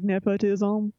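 imitated Cajun Man accent. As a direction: say it like a comic Cajun character. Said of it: "things in a Cajun accent".

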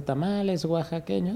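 street vendor call. Retold or imitated. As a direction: call it out slowly like the tamale cart. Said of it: "El que, el que va". (pregón de vendedor de tamales)

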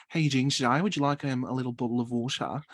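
imitated Australian cabin steward; Australian accent. Flight attendant offering water to passenger, imitated Australian accent. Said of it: "it was Virgin Australia".

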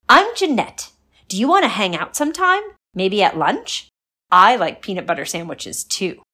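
put-on bright loud chatty girl; friendly and a bit sheepish; cheerful girl voice. Jeanette introduces herself.

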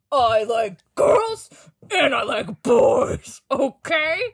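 mock rage. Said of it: "are still just like".

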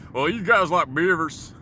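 lightly voiced American firing back with stereotypes; mock an American taunting a Canadian; heckling American. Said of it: "they're gonna be firing back with".

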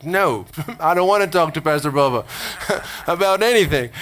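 retold refusal broken by a chuckle; amused refusal. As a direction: laugh through your own mock reluctance. Recalls balking, laughing at it.

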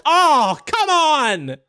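high, loud cry of disbelief; mock protest. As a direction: wail it like an outraged fan. Mock outrage at the assault charge.

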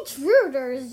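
loud cry of alarm; exclaimed alarm. A narrator's reading. Reading the ninja's alarm at the intruders, exclaimed loudly. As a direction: call out the alarm forcefully. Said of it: "Jane exclaimed".

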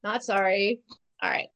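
ordinary talk

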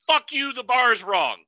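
mock angry outburst. Shown as a demonstration. The wrong way to tell the judge, furious mock yell. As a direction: play the hothead lifter blowing up.

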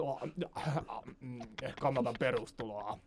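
low, soft, halting filler sounds before a random statement; awkward stammering. Retold or imitated. Stuck for small talk in English, awkward stammering. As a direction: fumble for words, then offer them quietly. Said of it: "sit mä niinku sönkötän siinä".

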